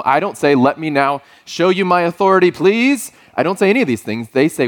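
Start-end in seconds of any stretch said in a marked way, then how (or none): 0.6-3.1 higher, rising to a pleading "please"; mock formal announcement. Dad parodies asking daughters to respect his authority, mock-formal. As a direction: announce it with put-on politeness, pitched up.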